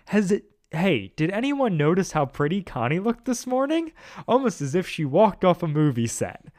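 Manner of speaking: dreamy smile. Acted. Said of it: "he finished with almost a dreamy smile".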